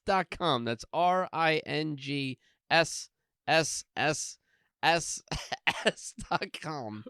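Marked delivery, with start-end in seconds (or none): 0.7-5.2 hissing S S S held long; drawn-out s like a snake. Shown as a demonstration. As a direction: spell out R I N G S S S with the S's hissed long. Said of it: "What's with all the S's?".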